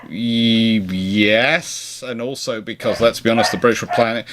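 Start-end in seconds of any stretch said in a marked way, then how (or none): none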